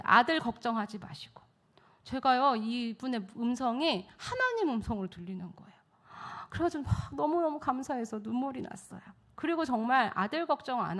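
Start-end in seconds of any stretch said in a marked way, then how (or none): none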